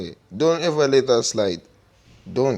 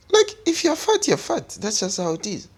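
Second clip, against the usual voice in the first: worked-up rant; 10 semitones higher than usual. Real, not acted. Blunt rant about labels.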